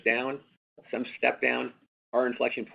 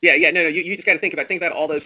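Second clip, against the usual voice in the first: louder, higher, jumping in to insist; emphatic cut-in; 6 semitones higher, 11 dB louder, faster than usual. Real, not acted. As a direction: press the point hard over the analyst. Cuts in to make his point.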